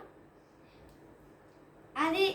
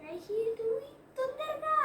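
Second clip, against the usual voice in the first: high, slow urging call; urging, high-pitched; 8 semitones higher, 5 dB quieter, slower than usual. Real, not acted. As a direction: coax her to hurry, pitched up. Urging sister to hurry.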